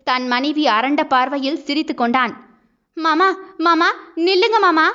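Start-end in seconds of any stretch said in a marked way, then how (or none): 3.0-4.8 wife shouting after her departing husband to stop; calling out after him. A narrator's reading. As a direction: call him back as he walks away. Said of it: "என்று கத்த".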